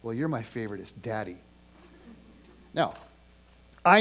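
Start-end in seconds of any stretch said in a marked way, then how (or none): 0.0-1.4 sweet daughter. Retold or imitated. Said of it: "And then she'd say".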